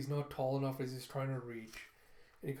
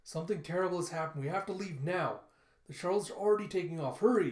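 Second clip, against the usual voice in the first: panicked mother; 4 semitones higher, 7 dB louder than usual. Retold or imitated. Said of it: "And she goes".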